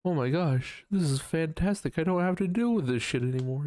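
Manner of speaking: high, fast, gushing relief; playful overexcited voice; mock delight. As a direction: gush like it's the best news ever. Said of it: "It feels like".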